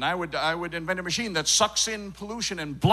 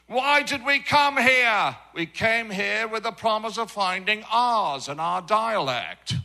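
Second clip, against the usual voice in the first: put-on English settler accent; 2 semitones higher than usual. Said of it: "wanna see where our dialect came from".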